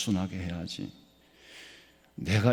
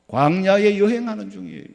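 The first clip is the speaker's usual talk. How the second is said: preaching emphasis; 7 semitones higher, 8 dB louder than usual. Acted. Sermon repetition.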